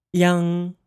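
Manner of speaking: "yang" as one syllable ending in ng; Mandarin final yang. Shown as a demonstration. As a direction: model "yang" for learners. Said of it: "you'll get".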